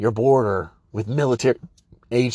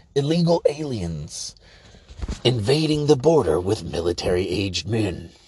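big, portentous, dramatic movie-trailer narration voice; 2 semitones lower than usual. Mocking what people tune in at 11 for: movie voice. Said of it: "I'll do my movie voice".

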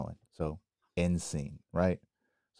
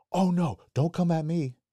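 mock very high, shrill, loud defensive yelling; 11 semitones higher, 5 dB louder than usual. Retelling how a woman reacted as the speaker walked toward her, imitating her yelling. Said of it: "like yelling".

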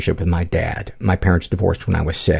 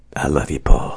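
on-air radio announcer style; 6 semitones lower than usual. Answering a request for something mean, in dj voice. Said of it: "DJ voice?".

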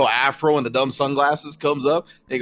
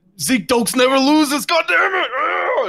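angry, much higher pitch, slower pace; 12 semitones higher than usual. A character who just lost a round storms off, angry. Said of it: "he like walks away all mad".

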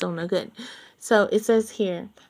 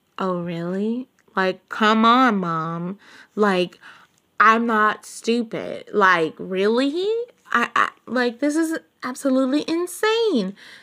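raised, drawn-out, slow, rising voice; 2 semitones higher, 4 dB louder than usual. Acting out how the character spoke to her mom: imitating a raised voice. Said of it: "she may have raised her voice".

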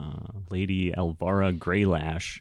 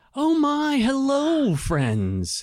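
very high, shrill, swooping gnome character voice; 5 dB louder than usual. Voicing a character greeting the friends, in a gnome-like character voice. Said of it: "it sounds like the useless gnome".

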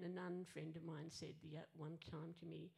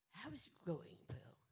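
whispery, hushed, breathy, teasing take-off. Retelling a church friend's encouraging question, mocking Frida's way of talking. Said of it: "I'm gonna sort of mock her a little bit here".

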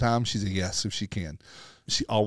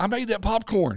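put-on high, excited shouted voice; 10 semitones higher than usual. Retelling how a young theater employee yelled at them: imitating someone yelling. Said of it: "and he's yelling".

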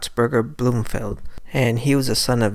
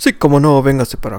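put-on loud, old-time TV announcer voice in Spanish; 2 semitones higher, 8 dB louder than usual. Describing a Spanish-language show's announcer and imitating him, old-time announcer voice. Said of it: "very much like an old-time announcer".

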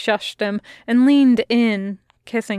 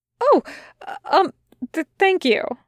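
stuttering, much higher pitch; 8 semitones higher than usual. Narrator reads a startled character thanking another for opening the door, stuttering. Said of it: "he stuttered".

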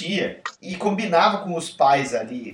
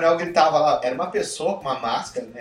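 ordinary delivery

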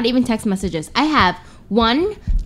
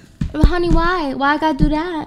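put-on Vietnamese accent, pleading, pitched up; 6 semitones higher than usual. Asked to do her Vietnamese Asian accent, answering in a Vietnamese accent. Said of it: "I want to hear your Vietnamese Asian accent".

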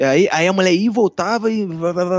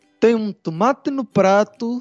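slow, thick, put-on European Portuguese accent; 3 semitones higher than usual. Retelling what a woman said passing their table, in a strong Portuguese accent. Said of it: "com um sotaque bem português assim".

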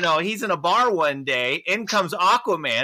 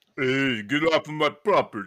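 low-pitched, tough-guy voice; 5 semitones lower, 3 dB quieter than usual. Retelling a made-up scene, the speaker redoes Stallone's line: Stallone impression. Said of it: "I don't know if that was good or bad".

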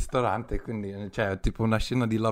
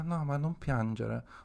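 imitated condescending, belittling tone, higher and quieter; 4 semitones higher, 5 dB quieter than usual. Retelling what a date said after yelling at the speaker: imitating a belittling tone. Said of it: "mi sminuiva e fa".

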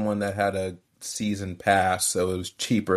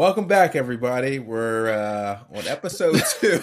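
evening-news anchor style delivery; 4 semitones higher than usual. Opening episode two of their show, the speaker talks in a news anchor voice. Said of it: "you sound like a news anchor".

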